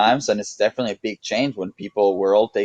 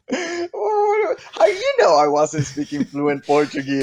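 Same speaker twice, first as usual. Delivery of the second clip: mock indignant; slower than usual. Real, not acted.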